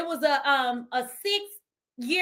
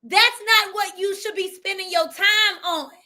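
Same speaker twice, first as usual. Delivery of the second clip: voice of God; 3 semitones higher, 4 dB louder than usual. Retold or imitated. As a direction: speak as a commanding God, lightly voiced. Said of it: "God said".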